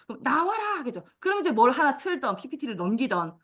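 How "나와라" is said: put-on louder kids shout. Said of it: "더 큰 소리로 해".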